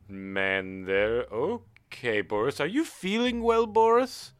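a lightly voiced clerk, condescending and rising at the end; a hint of a snooty clerk talking down to Boris; mock concern. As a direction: ask Boris if he's well with mock concern.

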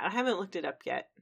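"yet" gently emphasized as the key word; stress on YET. Real, not acted. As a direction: lean on "yet" at the end. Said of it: "Emphasis on the yet".

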